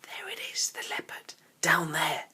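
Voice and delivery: hushed, breathless whisper; gasped whisper. A narrator's reading. Barney whispers to the Indian boy, spotting the leopard. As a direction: point it out without being heard. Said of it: "he gasped to his friend".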